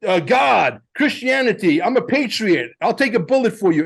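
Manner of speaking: hammed-up mock patriot. I see people say.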